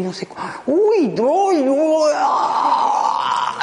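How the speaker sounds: high, loud, building to a panicked cry; mock panic outburst. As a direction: crack under all the worries at once. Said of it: "doblándose en cuatro con todas las cosas". (pánico fingido que estalla en grito)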